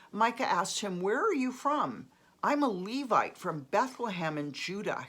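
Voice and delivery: lively, lifted narration with rising phrase openings; scripture read-aloud. A narrator's reading. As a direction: read the story out clearly, starting phrases high. Reads Bible passage aloud.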